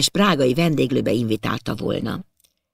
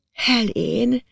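gentle murmur; 7 semitones higher than usual. A narrator's reading. Widow giving her name to the guest, gently murmured. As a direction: breathe out your name meekly. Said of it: "rebegte szeliden az özvegy".

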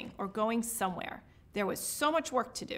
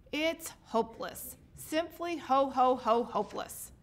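despairing. Acted. Santa despairing.

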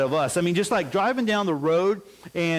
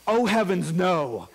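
higher, prissy "oh heavens no"; prim innocent denial; 3 semitones higher, slower than usual. Retold or imitated. Fifth grader feigning innocence to the principal, prim and high. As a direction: play the overly polite innocent kid. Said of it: "fifth graders don't talk like that".

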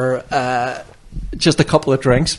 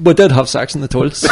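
blurted out through laughter; loud joking blurt with a laugh; laughing joke; 2 semitones higher, 7 dB louder than usual. Real, not acted. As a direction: shout the joke, then crack up laughing.

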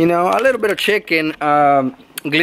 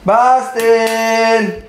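higher, long drawn-out name call; calling the dog; 4 semitones higher than usual. Real, not acted.

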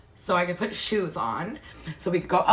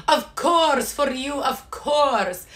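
eager worker; 4 semitones higher, slower than usual. Retold or imitated.

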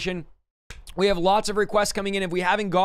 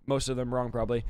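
ordinary talk

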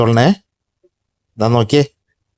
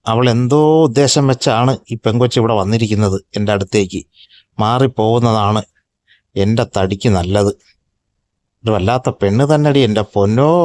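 lower, grumpy tomcat muttering to himself; a fed-up male cat grumbling under his breath; 3 semitones lower than usual. Acted. Tomcat complaining about the pushy girl cat, lower grumble.

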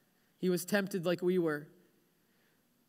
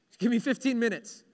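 more voiced, firmer tired plea; acted pleading for a short rest; insistent bargaining. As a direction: press the request with rising insistence.

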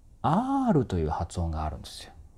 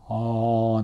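open-mouthed resonance; 3 dB louder than usual. Shown as a demonstration. Vocal coach shows the roomy mouth shape, open resonant "aah". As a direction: open "aah" with a wide space inside. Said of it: "あーってこうなりやすい".

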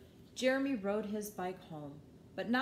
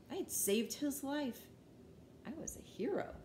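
proud little whisper to yourself; whispered pride; 6 semitones higher, 3 dB quieter than usual. A narrator's reading. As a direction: breathe it out, secretly pleased. Triumphant aside.

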